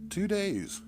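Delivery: a gentle smiling answer. Acted. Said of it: "she smiled".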